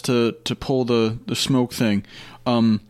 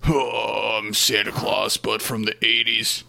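low harsh voice; slower than usual. Pretend. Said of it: "change up my voice so I sound gravelly and rough".

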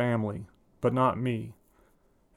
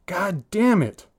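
put-on a frustrated boy swearing loudly, high and loud; angry outburst; 8 semitones higher, 6 dB louder, slower than usual. Ten-year-old gamer swearing at his game, loud and high. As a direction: blurt it out hot and loud at the game. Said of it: "loud enough to hear through the wall".

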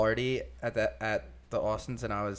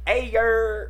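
voicing the dog; 11 semitones higher, 6 dB louder than usual. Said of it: "She's like".

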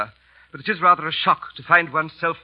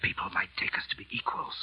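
hushed whisper; 8 semitones lower, 12 dB quieter than usual. Acted. Butler to his master, afraid of being overheard, whispering.

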